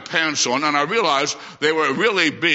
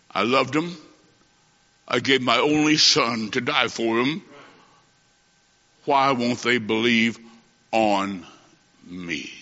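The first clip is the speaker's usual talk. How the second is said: God grieving; 5 semitones lower than usual. Retold or imitated. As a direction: let God's sorrow sink to almost nothing. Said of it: "that's what God said".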